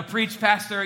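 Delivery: mild mock shout-back; imitated congregation shout. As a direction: call out like a churchgoer egging on the preacher. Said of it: "when you guys shout back at me".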